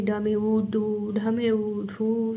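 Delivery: slow sing-song ड में उ, डू sounding out; slow spelling-out. Shown as a demonstration. Teacher showing the slow letter-by-letter way kids should skip. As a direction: sound out each letter and vowel slowly. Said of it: "ऐसे नहीं पढ़ते".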